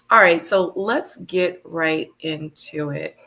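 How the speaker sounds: slow, tired, worn-out voice. Real, not acted. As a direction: drag it out like you're exhausted. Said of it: "No, it's my tired voice".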